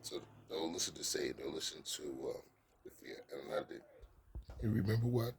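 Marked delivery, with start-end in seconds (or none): 4.6-5.3 voice cracking. Real, not acted. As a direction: voice cracks on the words. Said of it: "there go my voice cracking".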